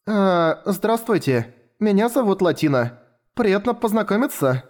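put-on high, timid child's greeting; shy babbling girl. A narrator's reading. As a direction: introduce yourself shyly like a small child. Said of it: "пролепетала Латина".

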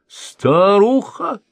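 high, slow, drawn-out angry cry; furious shout. A narrator's reading. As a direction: hurl the word at him in rage. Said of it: "Взъярилась княгиня". (яростный высокий протяжный выкрик)

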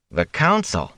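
high-pitched, disbelieving question; incredulous. A narrator's reading. Perrin questions his friend's plan, incredulous. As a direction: echo it back in disbelief. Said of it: "Perrin said incredulously".

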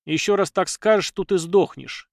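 usual speaking voice

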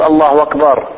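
الله أكبر with the hamza of أكبر turned to w; hamza as waw. Shown as a demonstration. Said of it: "الهمزة تخليها واو". (قلب الهمزة واوا)

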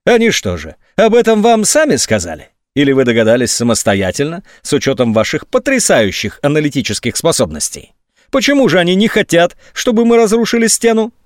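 sarcastic grilling. A narrator's reading. General mocking the colonel.

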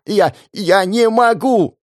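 high, slow, strained wail; anguished, slow cry of despair; desperate cry. Acted. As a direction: she refuses to lose. Sofia pinned down, desperate.

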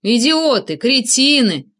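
loud furious cursing down the phone; stream of curses. A narrator's reading. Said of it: "поток ругательств".

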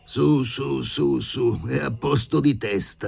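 put-on insistent there-there from an older man; hushing professor. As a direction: talk over the tears to calm her. Professor soothing the crying lady.

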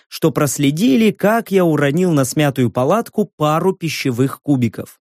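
usual speaking voice

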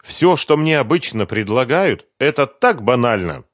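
put-on eager young woman recalling Kiev; Sveta's voice. A narrator's reading. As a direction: chatter it brightly as Sveta. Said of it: "продолжала Света".

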